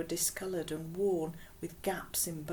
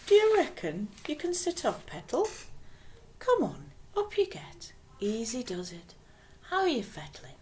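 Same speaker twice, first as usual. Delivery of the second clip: put-on gentle Geordie accent; 5 semitones higher than usual. Geordie woman coaxing girl to sit.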